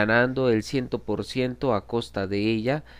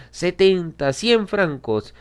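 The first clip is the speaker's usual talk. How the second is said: high, loud, resolute auction call; raised, high-pitched decisive bidding shout; emphatic winning bid; 9 semitones higher, 7 dB louder, slower than usual. A narrator's reading. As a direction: call out the bid to silence all rivals. Final bids that silence the room.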